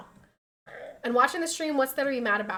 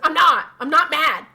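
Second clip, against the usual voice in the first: mock grumpy denial; 4 semitones higher, 11 dB louder than usual. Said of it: "He's like".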